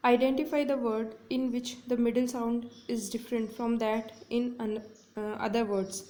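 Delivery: slow, careful reading of an exam question; deliberate classroom read-aloud. Shown as a demonstration. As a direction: read each word clearly for students. Teacher reads exam question aloud.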